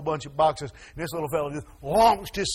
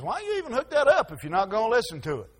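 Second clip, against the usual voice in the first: laughing; 6 semitones higher than usual. Retold or imitated. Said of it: "Ron says".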